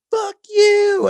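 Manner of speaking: high, loud, spat-out curse; mock furious snap. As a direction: hurl it like a stab. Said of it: "she's like".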